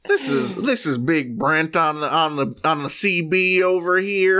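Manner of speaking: CB trucker radio talk; over walkie talkie. Acted. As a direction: trucker chatter on the CB.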